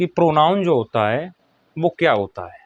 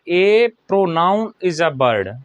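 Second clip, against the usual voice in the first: dictation; 3 semitones higher, much slower than usual. Real, not acted. Teacher dictating a definition to pupils.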